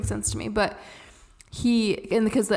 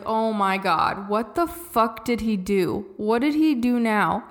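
slow, drawn-out exasperation; exasperated reaction; slower than usual. Retold or imitated. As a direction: draw out the dread, word by word. Retold reaction to a school call.

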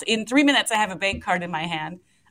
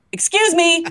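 higher, louder call for the cart, laughing at the end; 4 semitones higher, 4 dB louder, much slower than usual. Retold or imitated. Hailing the drink cart on the plane, a mock yell with a laugh. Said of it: "I yell out".

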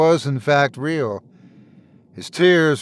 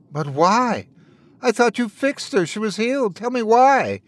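higher, a mild desperate plea; begging; 7 semitones higher than usual. A narrator's reading. Grieving old man begging the Fae for an answer, mild begging. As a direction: ask as if he can't bear it, understated. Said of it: "Wendell begged".

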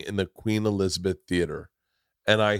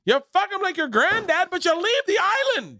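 put-on Canadian accent. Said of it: "I don't know what I'm doing, a Canadian accent".

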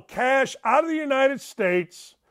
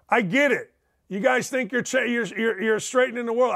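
ordinary talk

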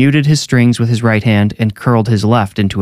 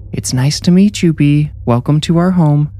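mom speaking loudly; 6 semitones higher than usual. A narrator's reading. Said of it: "Loudly, she said".

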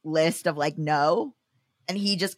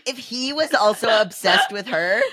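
laughing. Real, not acted. Laughing at the texts.

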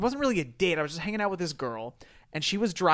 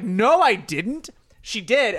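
deadpan denial; 5 semitones higher, 6 dB louder, much slower than usual. Retold or imitated. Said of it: "she's just like".

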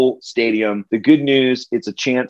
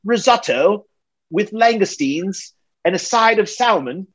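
Gordon Ramsay; 8 semitones higher than usual. Pretend. Chef tearing into a cook over risotto, higher mock fury. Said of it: "Do me a Gordon Ramsay".

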